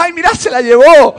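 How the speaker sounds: high, gushing "ay, mira" voice; delighted onlooker. Retold or imitated. Preacher voicing a charmed onlooker, high and gushing. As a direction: coo like a charmed bystander. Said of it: "Y se la llevaba".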